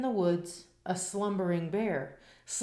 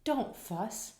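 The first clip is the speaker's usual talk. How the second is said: high soothing little mouse voice; squeaky mouse; 7 semitones higher than usual. A narrator's reading. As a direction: squeak gently to comfort the bear. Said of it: "Mouse squeaks".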